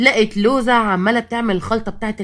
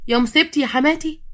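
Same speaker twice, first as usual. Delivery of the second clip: higher-pitched dismayed cry; acted alarm; 6 semitones higher than usual. Loza running to fallen mother-in-law, alarmed. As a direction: wail lightly in dismay.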